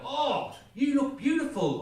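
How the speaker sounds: a lightly voiced doting boyfriend; sweet compliment. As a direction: coo the compliment at her. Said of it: "I'm supposed to say something like".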